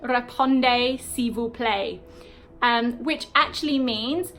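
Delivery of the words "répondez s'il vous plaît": amateur French, carefully spaced out; a Briton's poor attempt at a French accent; terrible French accent. Shown as a demonstration. British teacher reading out RSVP in full, terrible French accent. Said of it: "This is my terrible French accent".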